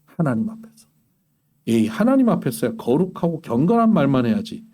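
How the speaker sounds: ordinary delivery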